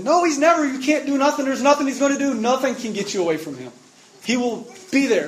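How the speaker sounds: high, loud insistent cry; friend screaming it. Retold or imitated. Friend grabbing him and shouting that nothing can separate him. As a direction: shout it at him like he won't listen. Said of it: "It's like just screaming at you".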